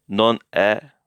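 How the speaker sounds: è in Non è as an open "eh", firmly. Shown as a demonstration. Teacher modelling for learners, è open like "eh". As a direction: say Non è ending on a wide "eh". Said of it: "it's not non è".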